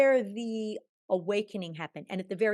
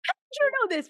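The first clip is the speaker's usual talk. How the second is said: much higher and louder, amazed; astonished; 7 dB louder than usual. Retold or imitated. Woman retelling asking the psychic, astonished and much higher. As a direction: ask it in pure disbelief. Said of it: "I went ... like".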